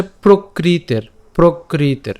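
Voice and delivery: "প্রকৃতের" as prokriter, the r closing the last syllable; pronunciation demo. Shown as a demonstration. Teacher showing how "প্রকৃতের" sounds, a clear model ending in -ter. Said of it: "তাই উচ্চারণটা কেমন হচ্ছে?".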